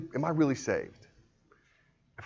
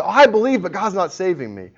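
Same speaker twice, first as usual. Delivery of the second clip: raised-pitch mock objection; protesting doubter; 6 semitones higher, 6 dB louder than usual. Preacher acting out a doubter's complaint, protesting in raised pitch. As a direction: voice the protest, starting high and loud.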